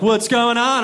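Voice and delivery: loud, bold hero voice; heroic eagle voice. Pretend. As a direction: arrive like a cartoon hero. Bald eagle arrives in daydream.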